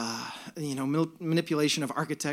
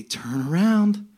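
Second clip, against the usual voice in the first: joyful attendant; 3 dB louder, slower than usual. Retold or imitated. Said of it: "she'd grab a tube and she'd say".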